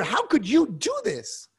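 a lecturer voicing the prophet's fury at God, shouting; indignant anger. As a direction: hurl the accusation at God, rising each time. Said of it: "he's reacting with indignant anger".

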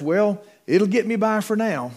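imitating an evangelist angling for money; mock begging evangelist. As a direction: play a preacher fishing for an offering. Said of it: "most evangelists would have written it like this".

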